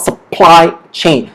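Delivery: "supply chain" with the P of PLY hit harder; stronger second P. Shown as a demonstration. Teacher explaining the stressed P, stronger PLY in supply chain. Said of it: "that means it's stronger there".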